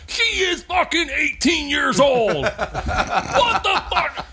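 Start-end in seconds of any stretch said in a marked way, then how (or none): 0.1-2.4 retold yell. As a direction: bellow it like a protective buddy losing it. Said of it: "he yells at every single guy".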